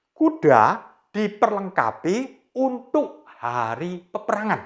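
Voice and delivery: put-on slow, deliberate reading for children to follow; slow read-along. Shown as a demonstration. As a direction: spell it out slowly so the kids can join. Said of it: "Kita baca sama-sama ya".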